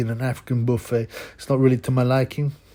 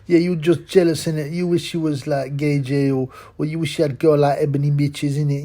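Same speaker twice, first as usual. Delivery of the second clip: higher, louder mock of a slangy commenter; 4 semitones higher, 4 dB louder than usual. Vlogger mocking lame channel comments, higher and louder jeering voice. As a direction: ham up the jeering viewer. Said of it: "I get the occasional lame comment".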